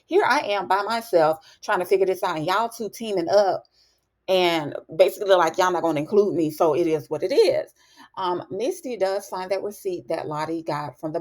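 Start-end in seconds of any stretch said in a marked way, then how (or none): 0.0-7.7 retold attitude. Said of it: "she just got an attitude".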